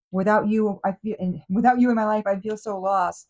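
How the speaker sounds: mock boohoo whine. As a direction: fake a pitiful plea to win them back. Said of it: "the boohoo energy is serious here".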